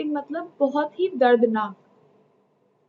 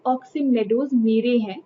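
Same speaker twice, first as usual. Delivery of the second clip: mock insistence. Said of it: "और वो कहता है कि".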